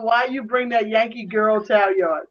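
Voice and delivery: quoted Jamaican relatives. Retold or imitated. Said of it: "I remember them saying".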